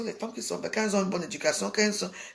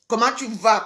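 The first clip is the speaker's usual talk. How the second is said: mocking the caller; 7 dB louder than usual. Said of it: "Comment tu vas de quoi?".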